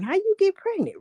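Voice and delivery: high, put-on puzzled voice; mock puzzled people. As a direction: ask it like a baffled bystander. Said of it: "people gonna be wondering".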